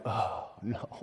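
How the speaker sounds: low, hushed "oh no"; mock dismay. Congregation hearing today's topic, mock hushed dismay. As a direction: sink into a quiet mock groan of dread. Acts out listeners' dread at topic.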